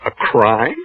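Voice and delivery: breathy, stunned echo; husband whispers back in disbelief; whispered disbelief. Acted. Husband incredulous.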